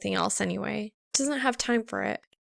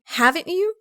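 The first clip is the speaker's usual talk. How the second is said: higher, louder challenge; challenging; 8 semitones higher, 6 dB louder than usual. A narrator's reading. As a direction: throw it back at him. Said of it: "Her expression is challenging".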